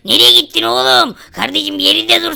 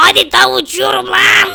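thrilled yell while flying; excited shout; 4 semitones higher than usual. Real, not acted. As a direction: shout it out with delight.

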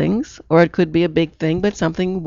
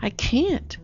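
soft, higher-pitched mock helplessness; small, raised "poor me" voice; helpless protest; 5 semitones higher, 8 dB quieter than usual. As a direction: imitate a client who won't budge. Retold client insisting she is helpless.

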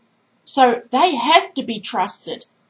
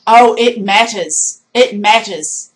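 emphatic; 6 dB louder than usual. Real, not acted. Forceful rebuttal to the excuse.

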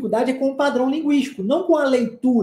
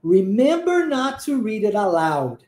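slow model reading; 2 semitones lower, slower than usual. Shown as a demonstration. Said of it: "Ele diz assim, ó".

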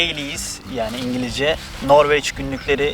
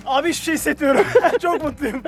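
excited; 12 semitones higher than usual. Real, not acted. Just out of icy water.

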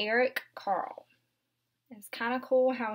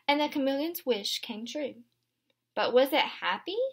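gentle picture-book read-aloud; storybook narration for little ones; reading to children; 3 semitones higher than usual. Acted. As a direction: read it aloud to a class of young kids. Teacher reads picture book aloud.

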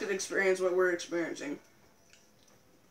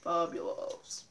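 drawn-out fabulous; 4 semitones lower, 8 dB quieter, much slower than usual. Pretend.

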